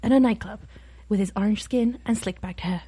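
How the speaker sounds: lightly done hushed documentary narrator; understated Attenborough impression; David Attenborough. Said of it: "That's actually pretty good for David Attenborough".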